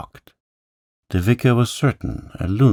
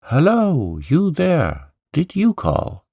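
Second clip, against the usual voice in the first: much higher, calling out into the dark; shouting; 11 semitones higher, 3 dB louder, slower than usual. Acted. Andrew calling up to the voices in the church tower, shouting. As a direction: hail someone far off. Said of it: "Andrew shouted".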